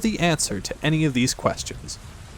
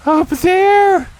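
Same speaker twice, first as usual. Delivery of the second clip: high, loud yelp; frightened shout; 8 dB louder than usual. Acted. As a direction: shriek it and point. Frightened Piglet points it out.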